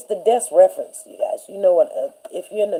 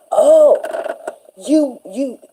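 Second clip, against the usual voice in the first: mocking laugh; 8 semitones higher, much slower than usual. Substitute teacher laughing at a student, mocking. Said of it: "the teacher was like".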